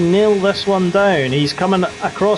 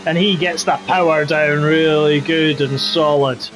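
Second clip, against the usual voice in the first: put-on Scottish accent. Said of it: "do the rest of the race in the Scottish accent".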